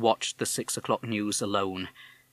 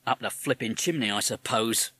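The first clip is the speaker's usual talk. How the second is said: sarcastic. Acted. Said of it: "said the policeman sarcastically".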